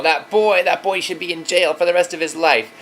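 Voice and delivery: put-on high, loud furious little boy; son's raging cry about his brother, imitated high and loud; angry child's shout. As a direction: yell it like an outraged ten-year-old. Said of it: "Bodhi was shouting".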